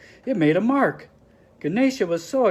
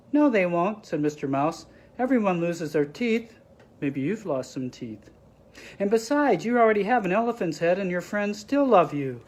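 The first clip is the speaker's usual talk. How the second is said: mouse; 3 semitones higher than usual. Acted. Mouse comforts Ganesha.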